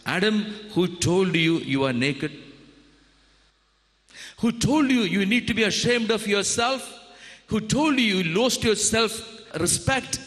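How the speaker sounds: God asks Adam who shamed him; God questioning. Acted. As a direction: press him gently, question after question. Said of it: "a question God asked".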